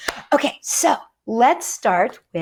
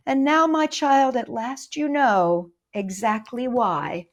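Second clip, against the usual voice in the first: put-on poem read to children. A narrator's reading. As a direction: recite the rhyme to little listeners.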